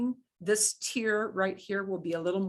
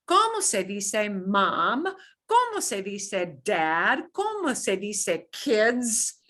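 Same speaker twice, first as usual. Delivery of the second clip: slow model phrasing. Shown as a demonstration. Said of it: "I'm gonna model some of these phrases".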